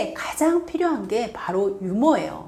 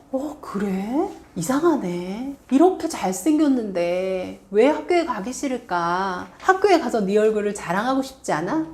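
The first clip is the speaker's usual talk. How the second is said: light and witty. Shown as a demonstration. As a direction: tease the kid lightly to brush it off. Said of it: "위트 있게 좀 가볍게 넘겨주시는". (위트 있게 가볍게 넘기는 말투)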